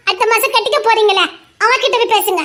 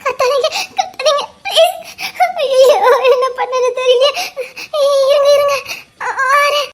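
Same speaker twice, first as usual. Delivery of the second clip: panicked laughter; 3 semitones higher than usual. Real, not acted. Woman laughs in panic begging him to stop shouting.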